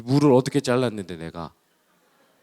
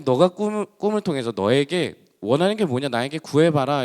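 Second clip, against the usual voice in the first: God's voice; 2 semitones higher, 4 dB louder than usual. Retold or imitated. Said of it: "하나님께서 이 솔로몬 왕에게 나타나셔가지고".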